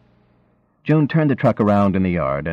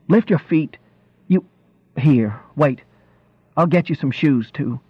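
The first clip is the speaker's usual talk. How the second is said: bossy fussing wife; 5 semitones higher than usual. A narrator's reading.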